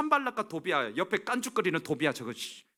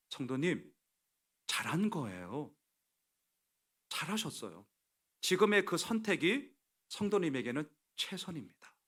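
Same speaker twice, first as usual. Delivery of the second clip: gentle reassurance; 4 dB quieter than usual. Retold or imitated. Pastor comforts a widowed church member about her choice, gently reassuring. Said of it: "제가 말씀드렸어요".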